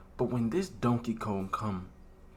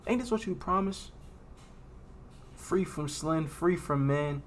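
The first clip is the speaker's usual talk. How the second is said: dazed; 3 semitones higher than usual. Retold or imitated. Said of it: "I'm like, dazed".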